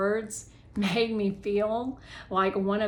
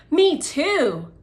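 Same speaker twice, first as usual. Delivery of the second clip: eager agreement; 8 semitones higher, 9 dB louder than usual. Acted.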